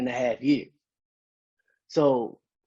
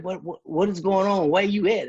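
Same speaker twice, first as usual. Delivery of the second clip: higher, louder frantic questions; mother demanding answers, voice pitched up with worry; worried mom; 5 semitones higher, 4 dB louder than usual. Retold or imitated. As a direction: voice a panicked mother asking where he is. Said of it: "She's like".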